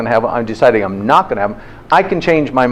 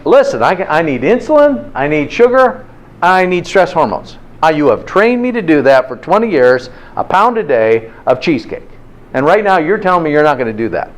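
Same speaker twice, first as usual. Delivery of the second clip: higher, pleading cravings; demanding body; 4 semitones higher than usual. Retold or imitated. The body pleading with its owner for sugar, higher. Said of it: "They're saying".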